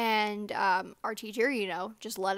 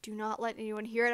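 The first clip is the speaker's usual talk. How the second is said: inner panic; 6 dB quieter than usual. Retold or imitated. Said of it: "in my head, I was just like".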